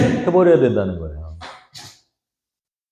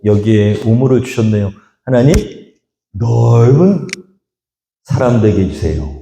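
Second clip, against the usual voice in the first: earnest prayer. Acted. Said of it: "라는 마음으로".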